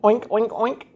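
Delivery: mild mock oinks. Shown as a demonstration. Parent answering toddler's question with pig oinks. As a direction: grunt out a playful oink. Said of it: "What does a pig say?".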